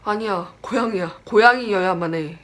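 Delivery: imitating a mother's adamant denial; firm insistence. Frightened mother insists to her child it was a cat, firmly. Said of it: "너무 단호하게 얘기를 하고 무서워하니까".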